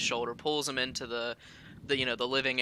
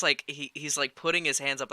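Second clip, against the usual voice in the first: ordinary talk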